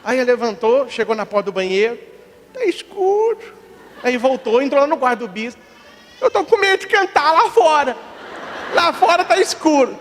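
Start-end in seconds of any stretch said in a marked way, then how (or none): 2.5-3.4 put-on high child's small worry; high, timid kid voice; scared little boy. Boy at dark bathroom. 6.2-10.0 put-on high child's small worry; high, timid kid voice; scared little boy. Boy tells bishop he's afraid.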